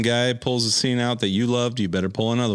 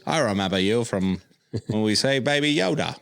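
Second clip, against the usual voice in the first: put-on New Zealand accent. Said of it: "it's my best New Zealand voice".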